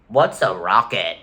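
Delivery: slow mock British accent. Streamer mocking the British government, in a bad British accent. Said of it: "the British government saying".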